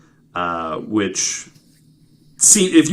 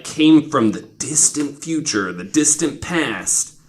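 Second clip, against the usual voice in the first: mock spooky whisper; 5 semitones higher, slower than usual. Spooky sci-fi aside.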